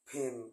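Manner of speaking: ফেন said with a p sound, lips pressed. Shown as a demonstration. Teacher demonstrating the p sound, clearly popped. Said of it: "পি কে ফি".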